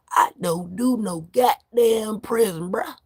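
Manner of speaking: slow, goofy Texan drawl; goofy Texas voice. Shown as a demonstration. Vlogger redoing his prison line for viewers in a goofy Texas voice. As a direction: put on a playful Texas drawl, stretched out. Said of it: "Put on my Texas voice".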